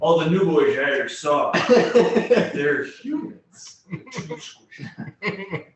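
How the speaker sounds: amused dwarf voice, slow and giggly; a dwarf laughing through the insult; laughing in character. Acted. Voicing NPC dismissing humans.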